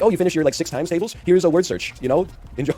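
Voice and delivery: mock patronizing teacher. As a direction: breezily hand over busywork, mockingly. Mocking a Canadian teacher.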